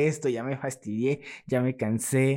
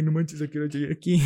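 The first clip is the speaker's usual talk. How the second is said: stunned surprise; 5 semitones higher, faster than usual. Retold or imitated. Surprised at where he walked.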